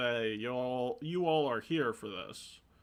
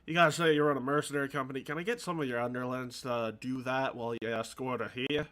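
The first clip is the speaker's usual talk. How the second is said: lightly gravelly shopkeeper with a southern-sounding twang; gravelly-voiced game character. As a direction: put some gravel in the voice. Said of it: "trying to have a gravelly voice".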